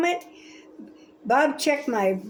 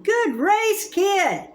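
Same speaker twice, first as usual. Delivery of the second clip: yelling; 4 semitones higher, slower than usual. Retold or imitated. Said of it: "I hear Bob yelling".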